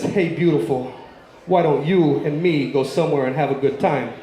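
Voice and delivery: lightly voiced old man, low pitch; a low-pitched, mock-suave come-on. Old man propositions call girl.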